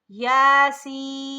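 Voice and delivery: यासीन chanted loud and slowly, सीन hissed and held long; recited with a whistling S. Shown as a demonstration. Teacher demonstrating the whistling letter. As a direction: draw out यासीन with a hissing स. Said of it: "और सीन सीटी की आवाज़ में पढ़ेंगे".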